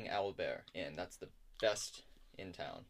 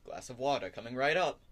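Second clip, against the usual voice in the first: loud, higher-pitched barkeeper; hearty barkeeper call; 4 semitones higher, 7 dB louder than usual. Acted. Barkeeper takes a customer's order, loud and hearty. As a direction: sing out the order to the room.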